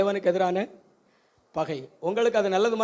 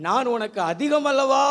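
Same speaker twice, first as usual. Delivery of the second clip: slow, drawn-out mock comfort, pitch up a little; husband soothing his weeping wife, lightly mocked; Elkanah consoling Hannah; 3 semitones higher, 4 dB louder, slower than usual. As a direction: stretch the comfort out like a hollow sweet-talker. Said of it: "அன்னாளை பார்த்து எல்கனா சொன்னாரு".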